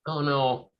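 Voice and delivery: normal talking voice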